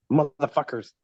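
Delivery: imitating a boss muttering a curse as he storms off; a grumbled swear, lightly hammed; hammed-up angry curse under the breath; mock cussing grumble.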